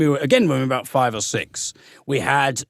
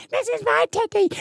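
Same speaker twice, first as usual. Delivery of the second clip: put-on squeaky kid reciting; mock little child; high child voice. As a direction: pitch it way up like a small kid. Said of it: "I've given all the kids".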